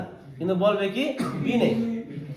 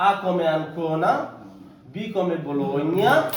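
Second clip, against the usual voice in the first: very slow, each letter and city spaced out; slow spelling demo; much slower than usual. Shown as a demonstration. Teacher dictating the spelling alphabet to students, very slow. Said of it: "তখন এভাবে বলতে হবে".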